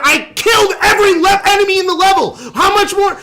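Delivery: high, loud exasperated yelling; frustrated shout. Real, not acted. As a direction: yell it out in frustration. Frustrated gamer failing a level.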